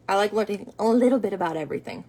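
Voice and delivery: quick line with a cracking voice. Real, not acted. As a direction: voice cracks mid-sentence, quick. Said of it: "My voice just cracked".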